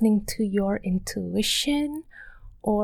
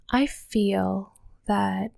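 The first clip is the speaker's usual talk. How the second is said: calm meditation voice; much slower than usual. Shown as a demonstration. Demoing intuition's voice to listeners, slow and calm. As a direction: say it like a recorded meditation. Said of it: "it would sound more like this".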